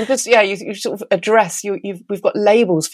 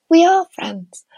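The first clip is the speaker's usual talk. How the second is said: excited; 11 semitones higher, slower than usual. Real, not acted. Insisting listeners are friends.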